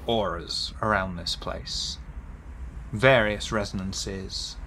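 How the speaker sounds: deliberate reveal with weighted pauses; game master narration. A narrator's reading. Game master telling a player what auras they sense, deliberate narration. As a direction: draw out the key words, then settle into description.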